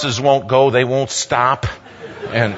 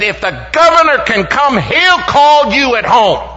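much higher put-on woman's voice, slowing at the end; secretary's voice; 13 semitones higher, 7 dB louder than usual. Secretary telling David the governor will call, in a high put-on voice. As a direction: raise the voice high to play the secretary.

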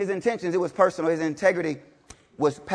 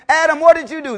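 higher, louder call to Adam; God calling out; 8 semitones higher, 8 dB louder than usual. Retold or imitated. Preacher voicing God confronting Adam, lightly voiced. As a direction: demand an answer, lightly voiced.

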